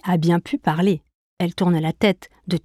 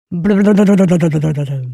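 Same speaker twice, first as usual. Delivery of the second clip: loud, long burbling camel noise; camels' approval; 5 dB louder, much slower than usual. A narrator's reading. Camels approve Jeanne's answer, drawn-out burble. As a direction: blubber it slowly like a camel. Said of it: "approuvent les chameaux".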